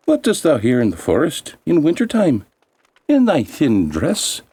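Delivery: high little elf voices; lightly voiced curious elves; elves asking. Elves question the girl.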